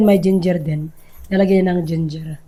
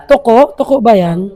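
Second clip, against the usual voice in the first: surprised question; 3 semitones higher, 6 dB louder than usual. Real, not acted. Spots a gecko.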